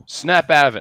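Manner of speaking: shouting. Acted. Shaking a frightened ally awake.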